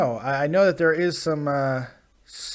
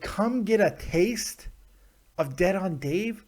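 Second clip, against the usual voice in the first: slow mock read; 4 dB quieter, slower than usual. Shown as a demonstration. Host mocking a fan's tweet, slow mock read. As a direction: stretch it out slowly, mocking. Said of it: "That, that works".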